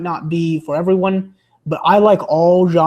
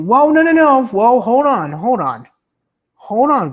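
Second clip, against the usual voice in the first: high, loud whoa, no, no; real surprised outcry, higher and louder; startled protest; 6 semitones higher, 5 dB louder than usual. Real, not acted. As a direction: stop the chat in its tracks with a shocked cry. Reacting to a chat message.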